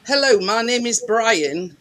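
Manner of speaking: slow, mock Pakistani accent on the greeting; scammer's Pakistani-accented phone greeting, imitated. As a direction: put on a Pakistani accent like a scam caller. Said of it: "with a, a Pakistani accent".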